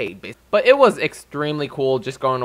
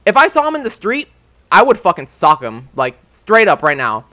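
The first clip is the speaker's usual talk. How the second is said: loud, heated rant; real anger; 3 semitones higher, 5 dB louder than usual. Real, not acted. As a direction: let the anger push the voice up and out. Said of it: "I don't think you guys ever heard me this mad".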